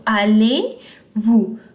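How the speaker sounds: allez-vous with silent Z, a-lay-VOO, slowly; French allez-vous. Shown as a demonstration. Teacher slowly models allez-vous for students. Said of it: "this Z is not pronounced".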